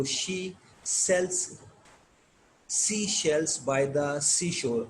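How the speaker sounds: "She sells sea shells by the seashore" with each S and SH separated carefully; tongue twister demo. Shown as a demonstration. Teacher showing learners S and SH sounds, deliberate tongue-twister demo. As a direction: pause after "She" and "sells", keeping S and SH distinct. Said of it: "ایس اور ایس ایچ کی sound کی practice".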